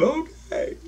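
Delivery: very high, rising put-on voice; dream figures' reply. Dream figures replying after crying, very high imitated voice. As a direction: squeak it upward as the dream figures. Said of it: "they went".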